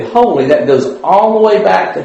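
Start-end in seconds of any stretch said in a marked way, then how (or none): 0.0-0.5 third "holy" lifted high and ringing; rising third holy. Shown as a demonstration. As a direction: climb up on the last "holy". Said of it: "when we sing and we say".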